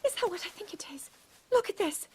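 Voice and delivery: thrilled naturalist's find; excited discovery. Acted. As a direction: gasp it out, then cheer. Finds a rare creature, thrilled.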